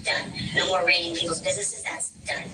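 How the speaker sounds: robotic voice-changer filter; speech through a voice app. Real, not acted. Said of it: "my voice changer".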